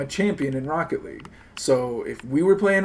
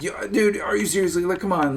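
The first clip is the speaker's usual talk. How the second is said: higher, half-hearted indignant call-out; mock indignant; 5 semitones higher, 3 dB louder than usual. Streamer coaching a friend to guilt the manager, mock indignant. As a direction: act offended at the manager. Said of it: "you're just gonna be like".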